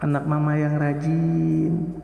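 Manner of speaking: slow, smiling and tender. Shown as a demonstration. Mother praising her child with a smile. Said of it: "Tapi senyum".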